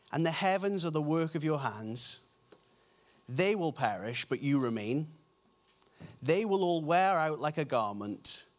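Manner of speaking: low, even psalm reading; scripture reading. Acted.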